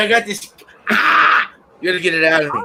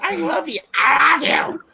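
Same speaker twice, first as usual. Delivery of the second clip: yelled I love you. Retold or imitated. Mock grandma yelling affection.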